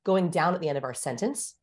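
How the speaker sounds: commanding fall on "sentence"; downward inflection. Shown as a demonstration. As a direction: let "sentence" drop at the end. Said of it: "there's the downward inflection".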